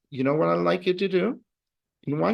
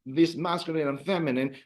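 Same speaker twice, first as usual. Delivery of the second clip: mock confidence; 3 semitones higher than usual. Teacher voicing how students should feel, confident. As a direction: play a student feeling totally on top of it. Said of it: "want you to feel like".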